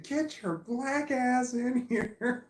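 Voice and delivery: very high, loud, slow laughing scream; screaming at the dog. Retold or imitated. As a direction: belt it out the back door, laughing. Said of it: "I screamed".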